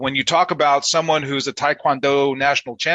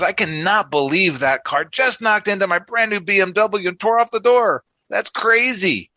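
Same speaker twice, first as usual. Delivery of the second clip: higher pitched, incredulous joke voice; mock disbelief; 6 semitones higher than usual. Car owner staring at his torn-off door, mock disbelief. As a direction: play the stunned car owner.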